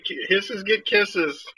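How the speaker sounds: sweetly cooing to a hissing kitten; tender cooing. Real, not acted. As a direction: coo it slowly like a rhyme.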